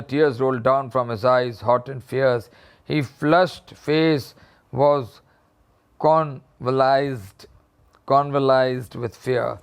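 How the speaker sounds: reading the story slowly, word by word. A narrator's reading. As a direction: read it out slowly for the class. Teacher reads the story aloud. (धीमी आवाज़ में कहानी पढ़ना)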